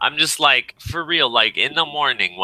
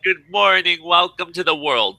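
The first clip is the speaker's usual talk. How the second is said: a hint of a higher, cheery morning greeting; mock the morning person with a lifted, sing-song hello; lightly voiced chirpy fairy; 9 semitones higher than usual. Echoing the fairy joke, lightly mocking a cheery morning voice. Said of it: "Yeah, like".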